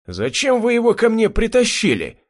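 high, loud angry roar. A narrator's reading. Butcher roaring at his soldiers, angry. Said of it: "заревел мясник".

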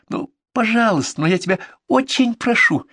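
high, whimpering plea; whiny plea. A narrator's reading. Girl pretending to cry to get a hug. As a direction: beg on the edge of tears. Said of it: "Захлюпала носом".

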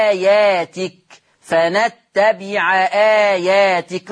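فنتبع آياتك with the hamza of آياتك kept; very slow, the ain of فنتبع voweled before آياتك; slow recitation without naql. Shown as a demonstration. Teacher recites فنتبع آياتك, where no naql applies. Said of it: "لاحظوا حاجة".

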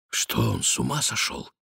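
тихий вопрос вполголоса, ниже и тише; шепни жене украдкой; тихо. A narrator's reading. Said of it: "тихо спросил Сен-Люк". (тихо, почти шёпотом)

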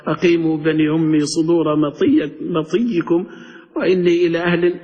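a touch of classical poetry recital; poem recital. Retold or imitated. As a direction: recite the Shanfara ode in a lightly chanted voice. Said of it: "نبي لك تقرأ لي قصيدة الشنفرة". (إلقاء شعر خفيف)

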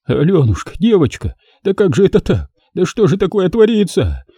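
shocked father wailing over his daughter; incoherent lamenting. Acted. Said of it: "бессвязно и тупо повторяя".

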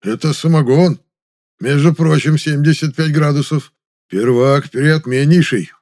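proud seller praising his brew; proud boasting. A narrator's reading. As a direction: boast with loud pride. Gerasim boasts of moonshine.

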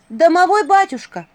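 high, loud, insistent summons; ringing high shout; calling out. A narrator's reading. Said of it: "позвала она".

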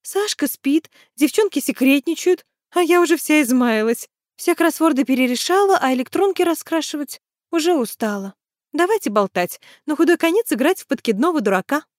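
put-on a bored young woman begging for fun; Tanya, bored and chatty. A narrator's reading.

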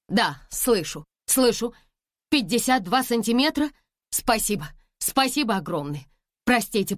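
high, eager questions into the phone; asking the hospital, thrilled; excited phone call. A narrator's reading. Phone call about the newborn. (взволнованный разговор по телефону)

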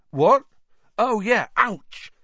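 sudden high "What?" then yelp; jolted awake, then a pained ouch; startled. A narrator's reading. Harry stepped on by Hermione, high startled yelp.

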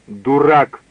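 sharp angry cry of Дурак; shouted insult. A narrator's reading. Bo shouts at Scott, angry cry. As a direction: snap it at him in anger. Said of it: "крикнула ему Бо".

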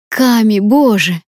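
slow, delighted cry of a name; joyful squeal. Acted. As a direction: greet her like a long-lost friend. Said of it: "завизжала от радости".

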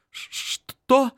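put-on high, startled girl. A narrator's reading. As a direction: squeak it out, startled. Startled girl's reply.

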